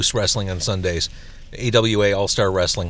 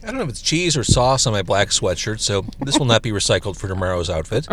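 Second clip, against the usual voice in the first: talking with a mouthful of burger; chewing while talking, mouth on fire; mouth burning from spicy food. Real, not acted. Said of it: "My mouth is on fire".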